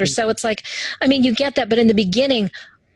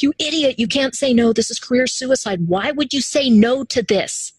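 self scolding; 5 semitones higher than usual. Retold or imitated. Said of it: "and it was like".

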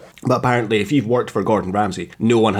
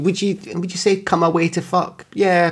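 high mock voice; 9 semitones higher than usual.

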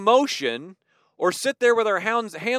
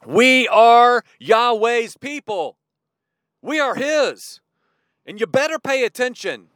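declaring shout; 4 semitones higher, 4 dB louder than usual. Retold or imitated. Israel's shout telling the earth they belong to God, proclaimed loudly. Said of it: "the loud shout that told the whole earth".

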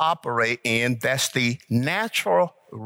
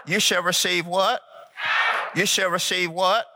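"You shall receive what" pitched higher, rising on "what"; emphatic prompting; 4 semitones higher than usual. Shown as a demonstration. Preacher urging the congregation to answer with emphasis, emphatic call-out. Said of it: "come on, put some emphasis".

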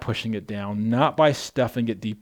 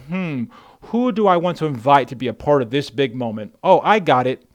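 God musing; 2 semitones higher, 6 dB louder than usual. Pretend. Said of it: "God's sitting there and he's like".

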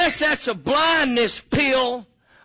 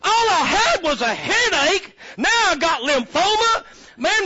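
outraged complaint; 4 semitones higher than usual. Retold or imitated. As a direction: rant like a ruined patient. Complaining victim, shouting.

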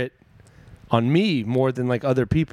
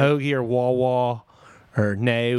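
mock Philly vowels; Kate Winslet; 2 semitones lower than usual. Comic listing Kate Winslet's words, mock Philly accent. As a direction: stretch the Philly vowels in each word. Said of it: "they really hammed it up".

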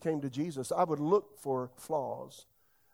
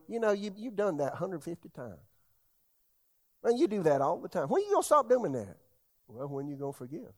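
acted-out complaint, pitch leaping midway; exasperated nag, played for effect; mock nagging. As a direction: imitate someone dredging up old grievances. Voices an unforgiving person nagging.

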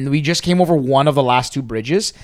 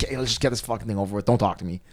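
retold resignation; 5 semitones lower, 8 dB quieter, faster than usual. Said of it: "She's like".

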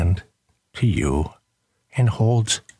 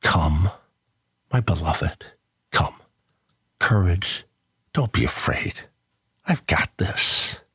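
Jesus reassuring; 5 semitones lower than usual. Acted. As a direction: comfort a frightened friend in a near whisper. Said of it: "he says".

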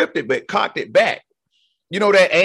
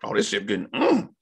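popcorn eating spectator. Retold or imitated. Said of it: "just comes in like".

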